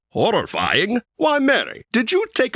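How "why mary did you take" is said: high, hammed-up "Why, Mary"; theatrical gasp of surprise; mock surprise. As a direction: play up the shock for fun. Host teasing Mary about script.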